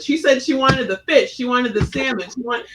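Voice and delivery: put-on a kid speaking over a waiter for her parents; loud and boisterous. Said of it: "be loud and boisterous".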